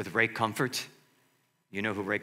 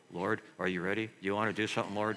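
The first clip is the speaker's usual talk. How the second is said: quiet prayer; 3 semitones lower, 5 dB quieter, faster than usual. Retold or imitated. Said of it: "walked up to him quietly".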